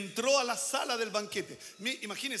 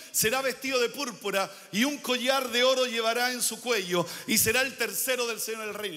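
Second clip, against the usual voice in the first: emphatic, raised preacher's reading voice; scripture reading; 2 semitones higher, 6 dB louder than usual. Real, not acted. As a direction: proclaim the verse to the congregation. Reads scripture aloud, forcefully.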